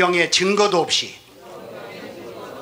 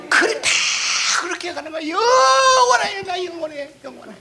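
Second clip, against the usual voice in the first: crying shout; 11 semitones higher than usual. Real, not acted. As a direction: cry it out as if overwhelmed. Preacher crying out eternal life.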